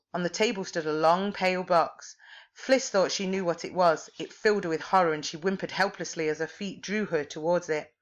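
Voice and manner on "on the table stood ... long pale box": plain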